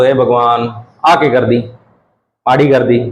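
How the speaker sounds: mock despair in Bagri, low; groaning about the paper in Bagri; Bagri dismay. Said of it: "Bagri अड़ो तो". (बागड़ी में paper पर नकली निराशा)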